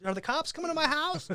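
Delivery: high, loud startled dad; suddenly worried father; mock alarmed dad. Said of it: "I'm like".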